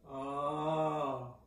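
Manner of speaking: long, hollow back "oh"; caveman oh. Shown as a demonstration. Voice teacher showing the caveman, back-resonant oh. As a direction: open into the yawn space. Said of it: "your caveman".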